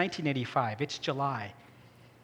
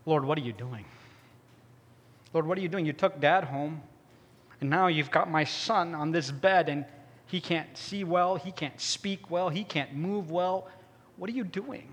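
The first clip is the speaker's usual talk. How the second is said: lightly voiced mother pleading with God through tears; understated grieving prayer; mother's tearful prayer. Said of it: "She is crying buckets of tears".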